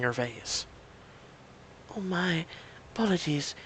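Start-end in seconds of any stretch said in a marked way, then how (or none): 2.0-3.6 put-on thick Romanian accent. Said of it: "she says in a thick accent".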